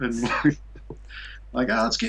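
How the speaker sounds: high, exaggerated Australian bloke voice; Australian accent. Imitating Australian guys reacting to his breakup. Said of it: "that was a pretty decent Australian accent there".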